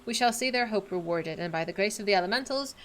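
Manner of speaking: solemn quest-giver read; lightly voiced noble NPC; reading game dialogue. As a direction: voice the NPC's lines with gravity. Reads NPC quest dialogue aloud.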